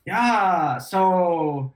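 drawled Californian; laid-back California accent. Shown as a demonstration. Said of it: "Try and do California".

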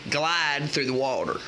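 put-on loose, drawling Southern country accent throughout; hammed-up Southern country accent giving fishing tips. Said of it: "I'm gonna keep the accent".

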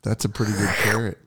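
soft breathy whisper. Real, not acted. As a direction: whisper it under your breath. Hushed comment mid-game.

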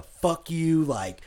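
a pushy rep's rude reply, voiced; mock angry email. Retelling a rude email to a buyer, mildly heated. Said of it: "has the audacity to write back".

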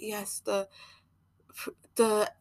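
stalling on "the" with a long gap; imitated stammer. Speaker showing how she breaks down when trying to articulate, mock stammering. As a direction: act out losing your words mid-sentence. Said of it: "I'll be stammering".

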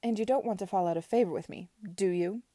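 a lightly voiced imperious aunt, measured; Lady Denham lecturing Edward, haughty; stern aunt. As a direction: lay down the law to her nephew.

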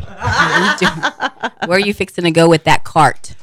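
mock Southern accent. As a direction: mimic his accent while laughing. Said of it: "That's what he's doing".

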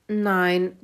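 loud, lightly grunted pig answer; a hint of a grunting pig. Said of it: "grunzte Kalle".

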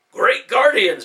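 high, loud startled cry; surprised exclamation. Acted. Ben sees the sphere work, startled high exclamation. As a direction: burst out in amazement.

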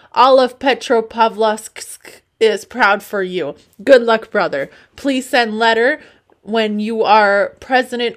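put-on loud, comic Russian accent. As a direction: declaim it loudly in Russian-accented English. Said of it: "said that all in an accent".

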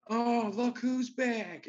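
high, slow taunting drawl; mocking son's slow sneer. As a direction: taunt them as they return. Mocking smoking son taunts.

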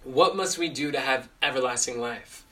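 measured question with weight on "What"; leading question. Shown as a demonstration. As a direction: pose it to direct the focus. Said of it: "same verse, new question".

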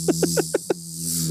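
buzzing like a bee. Shown as a demonstration. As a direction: buzz like a bee around the office. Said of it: "I'm doing an impression of a bee".

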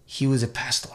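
put-on measured, halting German accent. Doctor interviewed post-war, speaking in a German accent. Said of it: "I'm doing my German accent".

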